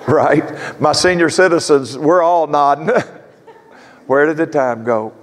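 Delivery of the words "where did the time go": laughing. Real, not acted. Repeats it laughing with congregation.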